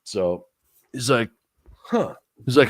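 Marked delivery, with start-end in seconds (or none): 1.8-2.2 mock intrigued huh. Bar guy's interested reaction.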